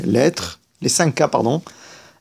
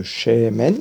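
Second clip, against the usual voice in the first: Shemen with a long, weighted "SHE"; stress on first syllable. Shown as a demonstration. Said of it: "l'accent tonique est sur la première". (Shemen accentué sur la première syllabe)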